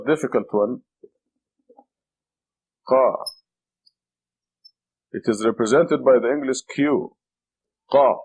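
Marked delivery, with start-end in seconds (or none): 2.9-3.1 Qa with a heavy K from the throat. Shown as a demonstration. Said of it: "It's a heavy K". 7.9-8.2 throaty heavy K in Qa. Shown as a demonstration. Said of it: "It's a heavy K".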